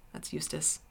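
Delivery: plain reading voice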